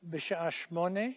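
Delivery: בשעה שמונה redone quickly and cleanly; corrected take. Shown as a demonstration. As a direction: redo the line quickly, correctly. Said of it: "I didn't say that well".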